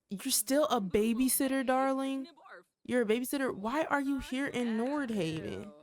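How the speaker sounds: pissed. Acted. Nikki grills the babysitter about being in Nordhaven, pissed. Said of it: "look, she's pissed".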